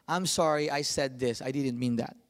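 gently sorry, low and soft; soft apology. Retold or imitated. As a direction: apologize quietly to the children. Father apologizing to kids.

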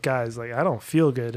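a quiet, half-hearted groggy complaint; weak and dazed. Retold or imitated. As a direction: sound woozy and unwell. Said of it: "and I'm like".

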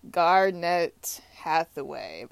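Garnett Hathaway said slowly, in separated words; slow, tentative Garnett Hathaway; unsure name pronunciation. Real, not acted. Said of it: "I don't know exactly how he says it".

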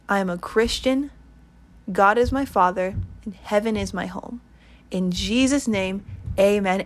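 prayer read for listeners to echo; led prayer. Acted. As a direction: lead the sinner's prayer line by line with pauses. Leads a prayer.

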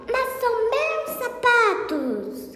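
a high-pitched cry of discovery, mildly voiced; high mock shout. Patão finds his own stolen shoes, high mock shout. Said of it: "gritou o Patão".

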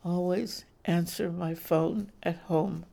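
flat robotic monotone. Acted. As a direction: answer like a robot. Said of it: "the robotic voice replied".

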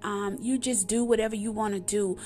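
earnest spoken prayer to God. Acted. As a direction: pray it sincerely. Opening prayer on podcast.

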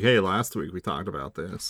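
mock podcast recap voice. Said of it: "Well, that, exactly like that".

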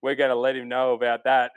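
light imitation of a thick southern accent. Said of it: "thick southern accent".

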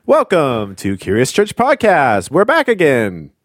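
slow intro with no comma; no pause, run together. Shown as a demonstration. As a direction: say it slowly without a pause. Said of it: "Should I try it a different way?".

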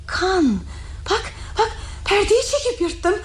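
near sobbing panic; tearful. Acted. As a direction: cry through the words. Hysterical after the murder.

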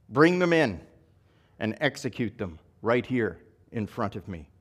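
measured Bible reading to the congregation; scripture reading. Acted. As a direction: read the parable aloud with gentle drama. Pastor reads the parable aloud.

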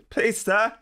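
high, loud, slow begging in a put-on old-English accent; hammed-up plea for cards, high and drawn out; pleading beggar accent. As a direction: beg like a starving orphan in a mock old-English accent. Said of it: "I don't know what that accent was".

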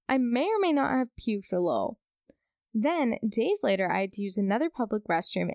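lively, measured read-aloud with lifts on key words; story read-aloud. Acted. Reading a viewer's restroom horror story to the audience, story read-aloud.

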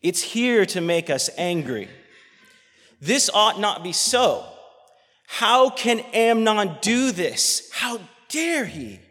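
loud, high, slow preaching rage; angry outcry. Real, not acted. Preacher raging at the injustice done to her. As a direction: cry out for justice. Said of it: "makes me so angry".

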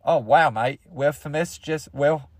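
lightly put-on, halting Aussie accent; Australian accent. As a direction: attempt a mock Australian reaction. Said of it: "That's Australian".

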